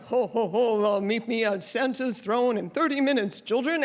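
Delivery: lightly imitated jolly showman carrying on; a hint of booming cheer for the children; Santa. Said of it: "he is a trooper".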